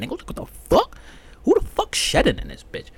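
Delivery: high, loud outraged yell; furious outburst. Retold or imitated. Yelling in disgust at whoever left hair on the seat. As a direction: blow up at the hairy toilet seat. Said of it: "I was fucking mad".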